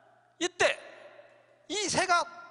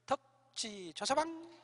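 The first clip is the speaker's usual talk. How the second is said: mock oriole call; 5 dB quieter, slower than usual. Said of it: "이렇게 울어요".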